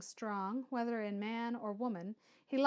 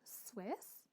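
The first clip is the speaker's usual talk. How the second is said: whisper; 11 dB quieter than usual. Acted. Frances catching offensive word.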